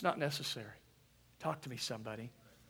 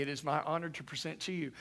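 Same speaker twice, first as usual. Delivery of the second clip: officiant's announcement; 5 dB quieter, faster than usual. Shown as a demonstration. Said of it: "I say".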